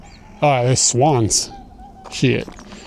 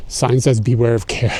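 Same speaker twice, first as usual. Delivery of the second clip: huffing and puffing, breathless; out of breath. Real, not acted. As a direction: talk while panting from the walk. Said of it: "sorry, I'm huffing and puffing".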